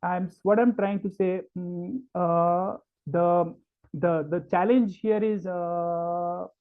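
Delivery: hesitant, padded with uh and um; full of filler words. Shown as a demonstration. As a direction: stumble through with filler words. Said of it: "Filler words".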